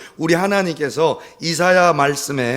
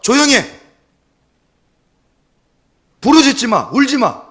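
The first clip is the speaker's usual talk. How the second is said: loud, high scolding commands; browbeating parent; 9 semitones higher, 7 dB louder than usual. Acted. Parent who cannot solve things silences child, browbeating. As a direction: shout the child down, order by order. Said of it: "부모가 윽박을 지르기".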